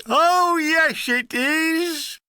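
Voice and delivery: high, loud pantomime-style comeback; sing-song mocking shout, pitched high; chorused retort. A narrator's reading. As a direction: call it back like a jeering crowd. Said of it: "there was a great chorus back".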